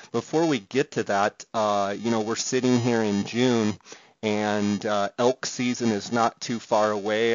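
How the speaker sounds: distorted bad-connection audio; fuzz distortion. Real, not acted. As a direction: voice crackling through a bad line. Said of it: "the distortion that you're gonna hear".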